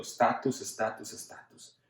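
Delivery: estatus repetido, cada vez más bajo hasta susurrarlo; fading to a whisper. Acted. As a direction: let each estatus fade, the last one whispered. World whispering status, fading. (repetir estatus apagándose hasta un susurro)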